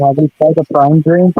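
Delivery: muffled underwater sound; like talking from under water. Real, not acted. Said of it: "you definitely sound like you're underwater".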